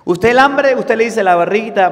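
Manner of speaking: loud, high pulpit call to the women; fervent preaching. Acted. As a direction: press the question on the congregation. Preaching at full force.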